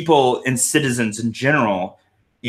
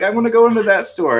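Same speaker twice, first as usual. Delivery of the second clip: put-on kid's whine; 9 semitones higher, 4 dB louder than usual. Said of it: "they're like".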